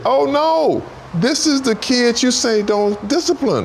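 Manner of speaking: a dad gasping at the son he was told not to discipline; mock alarm. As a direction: squeal it like a horrified parent. Teller voices his shocked reply.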